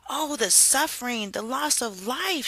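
high, wailing lament over the fire. A narrator's reading. Harriet laments the burning forest, high and wailing. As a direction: mourn the lost lives in a high voice. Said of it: "she lamented".

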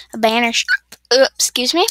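interrupted by a hiccup; hiccuping mid-sentence. Real, not acted. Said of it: "Now I have the hiccups".

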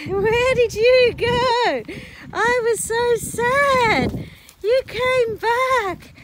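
slow doting horse talk; tender pet talk. Real, not acted. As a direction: welcome them home gently. Greeting returned horses.

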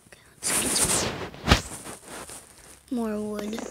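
hushed, hurried whisper. Real, not acted. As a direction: whisper it under your breath. Quietly hoping for loot.

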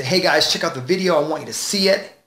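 confident quick video plug. Shown as a demonstration. Coach demonstrating confident speech to viewers, quick and assured. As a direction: pitch it to viewers briskly and surely. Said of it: "I can speak like this".

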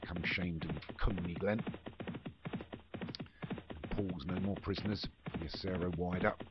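live play-by-play calling the runners; race commentary. Acted. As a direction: call the field like a racecourse commentator.

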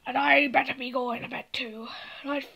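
soft whispered goodnight. Pretend. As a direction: keep it to a hushed whisper. Toys whispering goodnight at night.

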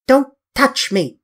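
high, loud and slow, recoiling from a touch; recoiling outburst. A narrator's reading. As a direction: flinch away and snap it out. Dorian recoils from Basil.

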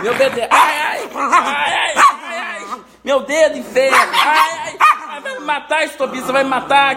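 high pained cries of ouch; real pain. Real, not acted. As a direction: yelp from a bitten finger. Dog bit his finger.

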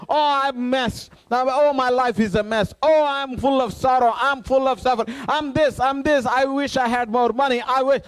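a whiny complainer, lightly voiced; mock complaining. Preacher mocking complainers to the congregation, lightly whiny. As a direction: mimic someone moaning about their life. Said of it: "Instead of complaining about your life".

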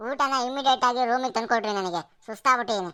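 a touch of haughty, bossy order; arrogant demand. Acted. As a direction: order the food like a spoiled lord. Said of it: "ಈ ದಿಮಾಕಿನ ಮಾತುಗಳಿಗೇನು".

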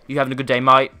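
playful attempt at a British accent; casual mock-British small talk. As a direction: try your best British accent. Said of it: "in our best British accent".

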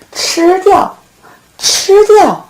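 big-bad-wolf pounce; loud wolf roar. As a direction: bark it out like a hungry wolf. Wolf roars he'll eat her.

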